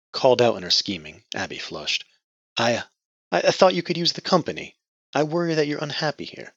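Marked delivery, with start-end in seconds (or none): 2.6-6.5 much higher stammering voice; stammer, caught out; flustered stammer. Acted.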